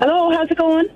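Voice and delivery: put-on Irish accent. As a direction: answer the phone with an Irish lilt. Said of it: "You reckon she's putting on a voice".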